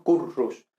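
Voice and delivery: Currus with a strong trilled RR; rolled Latin R. Shown as a demonstration. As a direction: say Currus rolling the RR hard. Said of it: "lo normal es simplemente pronunciarlo como la R española".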